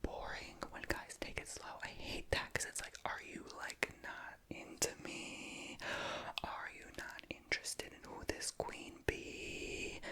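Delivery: slow, drawn-out whispered storytelling. Real, not acted. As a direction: tell it all in a slow whisper.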